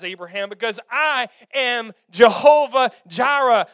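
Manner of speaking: booming God voice. Acted. God thundering his name at Abraham, full shout. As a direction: shout "Jehovah Jireh" out full and loud.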